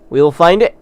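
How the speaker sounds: rally the viewers with a determined pledge; rallying cry. Shown as a demonstration.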